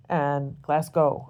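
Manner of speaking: "Glasgow" said slowly as "Glass-gow", the wrong way; wrong pronunciation. Shown as a demonstration. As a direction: stretch "Glasgow" out with a gow ending. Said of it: "you can't say Glasgow".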